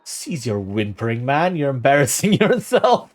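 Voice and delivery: a loud contemptuous put-down that breaks into laughter; scornful, laughing. Acted. Player mocks the sobbing father, loud and laughing. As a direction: sneer at the grieving man, then crack up. Reading a scornful dialogue option aloud.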